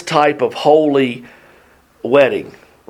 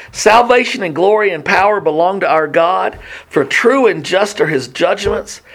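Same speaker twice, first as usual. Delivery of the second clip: higher-pitched, declaimed Bible verse; scripture reading; 5 semitones higher than usual. A narrator's reading. Heavenly multitude praising God's judgments, declaimed scripture reading. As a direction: proclaim the verse with lifted pitch.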